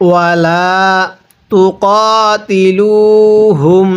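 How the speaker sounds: slow, drawn-out Quranic chant; measured tajweed recitation. Shown as a demonstration. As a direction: recite each word slowly and melodically.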